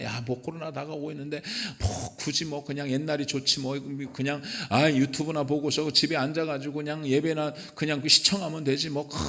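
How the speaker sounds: quiet, reluctant imitation; grumbling excuse. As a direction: imitate someone making excuses, well under full voice. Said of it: "사단의 속삭임을 듣고서".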